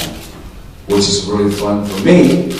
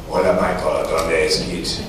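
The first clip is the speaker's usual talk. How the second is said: Mexican fan; 3 semitones lower, 4 dB quieter than usual. Retold or imitated. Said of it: "Mexico, you know".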